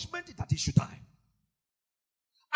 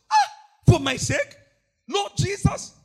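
much higher, loud wail; anguished cry; 7 semitones higher, 9 dB louder than usual. Real, not acted. Anguished outcry in sermon.

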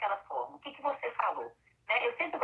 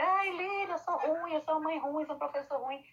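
higher, mock-plaintive lament, fading at the end; whiny self-pity; 5 semitones higher than usual. Parent confessing guilt to the counsellor, mock whiny lament. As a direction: play a guilty parent moaning that they're no good. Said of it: "Porque tem gente que fica".

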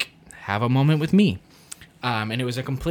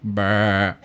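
sheep snort; 5 semitones lower than usual. Retold or imitated. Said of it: "I was just like".

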